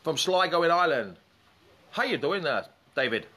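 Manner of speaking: a light hint of an Irish accent; lightly put-on Irish lilt, greeting a caller; Irish impression. Greeting a viewer from Sligo in a light Irish accent. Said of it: "That's my Irish impression".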